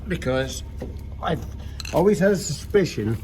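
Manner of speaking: straining while crawling under a car; words pushed out with effort; strained, crawling. Real, not acted. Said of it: "sorry, I'm crawling to the car".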